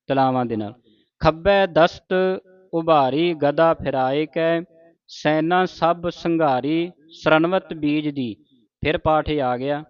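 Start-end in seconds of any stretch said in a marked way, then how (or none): 1.2-8.3 slow, measured verse reading; scripture recitation. Acted. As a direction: recite word by word, drawing out the line endings. (ਠਹਿਰਾਅ ਨਾਲ ਗੁਰਬਾਣੀ ਪਾਠ)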